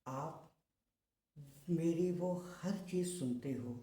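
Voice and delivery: heartfelt address to the universe; slow phrases with pauses, like a led affirmation; gratitude prayer. Acted. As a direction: pray aloud phrase by phrase, earnestly thankful.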